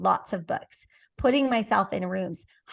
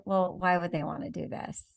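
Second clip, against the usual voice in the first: doubtful question; 3 semitones lower, 5 dB quieter than usual. Shown as a demonstration. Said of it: "that's the intonation of the question".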